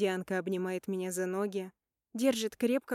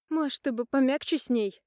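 annoyed; 5 semitones higher, 5 dB louder than usual. Acted. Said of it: "говорит с досадой Майка".

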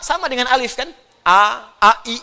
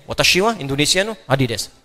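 Japanese phrase; 4 semitones lower than usual. Shown as a demonstration.

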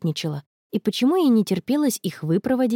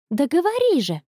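eager, higher push to spill it; urging; 6 semitones higher than usual. A narrator's reading. Connie pressing Anna to tell about the date, eager. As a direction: hurry her up, impatient and curious. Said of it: "поторопила её Конни".

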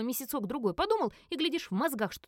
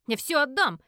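louder, defiant promise; cocky retort; 4 semitones higher, 7 dB louder than usual. Acted. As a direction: snap back with a cocky tone. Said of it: "задиристо ответил парень". (задиристо, громко)

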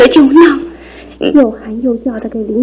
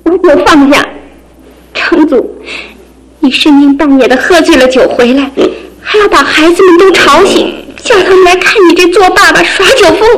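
upset scolding; 3 semitones higher than usual. Acted. Wife scolds drunk husband.

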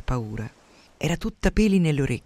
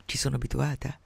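softer, light and offhand; softly, lightly; 6 dB quieter than usual. Acted. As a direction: let it drop gently. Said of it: "aggiunse più piano, leggera". (detto piano, con leggerezza)

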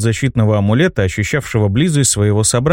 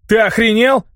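high-pitched, indignant outburst; outraged cry; 9 semitones higher than usual. A narrator's reading. Hero rejects the mage's claim, crying out indignantly. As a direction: protest in a raised, high voice. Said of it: "закричал я".

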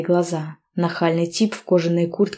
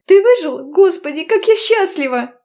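much higher, louder happy squeal; squeal of joy; 12 semitones higher, 5 dB louder than usual. A narrator's reading. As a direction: shriek with joy. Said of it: "завизжала от счастья".

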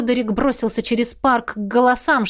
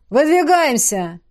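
command; 5 semitones higher, slower than usual. A narrator's reading. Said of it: "скомандовал Рурк".

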